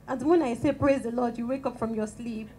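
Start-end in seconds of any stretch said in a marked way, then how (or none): 0.7-1.4 mock loud "praise the Lord"; booming praise shout. Shown as a demonstration. Speaker demonstrating a wake-you-up praise call, loud. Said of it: "that kind of voice".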